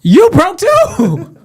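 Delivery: mock roasting shout. Roasting a cheap donor.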